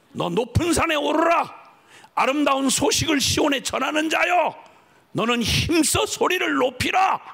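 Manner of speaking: rising, shouted scripture proclamation; preaching at full force. Acted. Preacher to congregation, shouting scripture in full force.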